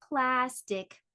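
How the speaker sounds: "Plastic" in two distinct beats; measured, separated syllables in "Plastic"; split into syllables. Shown as a demonstration. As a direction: say "Plastic" as plas, tic. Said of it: "How many syllables?".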